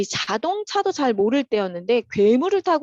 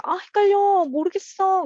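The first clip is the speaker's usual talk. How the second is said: high, louder mock whine of confusion; frustrated student; 10 semitones higher, 4 dB louder than usual. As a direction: act out a student stuck on homework. Acting a stuck student. (헷갈려서 답답해하는 학생 흉내)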